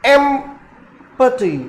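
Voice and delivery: slow एम्पटी, EMP strong and ty weak; stress on EMP. Shown as a demonstration. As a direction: stretch एम्पटी and lean on EMP. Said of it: "double syllable है".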